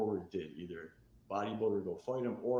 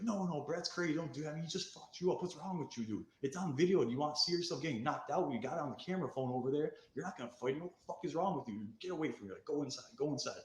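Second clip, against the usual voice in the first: higher, pleading friends voice; quoted friends; 6 semitones higher than usual. Retold or imitated. Friends telling him not to fight, lightly voiced pleading. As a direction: play the boys holding him back.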